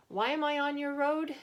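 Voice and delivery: put-on big husky old man voice. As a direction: boom it out in a big husky character voice. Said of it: "he asked in a big husky voice".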